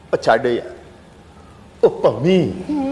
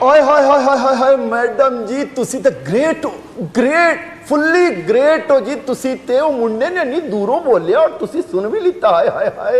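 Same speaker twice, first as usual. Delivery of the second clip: gushing delight; 5 semitones higher than usual. Acted. Sardar gushing over the inspector.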